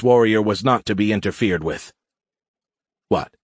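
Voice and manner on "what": mocking baby-talk sneer. A narrator's reading. Warrior taunts the agitated cadet, sneering. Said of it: "Jate sneered".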